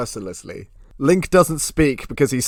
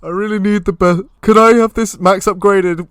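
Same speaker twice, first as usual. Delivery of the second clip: higher, louder pleading Link voice; 7 semitones higher, 8 dB louder than usual. Pretend. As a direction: beg like an eager customer.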